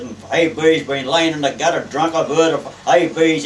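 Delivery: captain berating a seaman, loud; angry captain. Retold or imitated. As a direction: retell a loud dressing-down. Captain berates young seaman for excuse.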